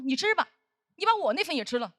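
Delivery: imitating a snide senior colleague; lightly mocking, sarcastic offer; passive-aggressive. Senior colleague begrudging the narrator a meal, mildly passive-aggressive. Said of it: "阴阳怪气的跟我说".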